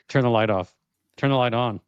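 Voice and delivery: loud, bossy mock orders; mock commands. Playfully ordering the spirits to flick the lights, loud and bossy. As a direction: bark it like a demanding boss. Bossing spirits around for fun.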